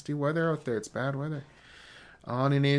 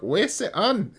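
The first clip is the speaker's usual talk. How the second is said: higher, louder outcry; excited exclamation; 8 semitones higher, 6 dB louder than usual. Acted. Teacher acting out a tornado weather report, excited exclamation. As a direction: call it out with alarmed excitement.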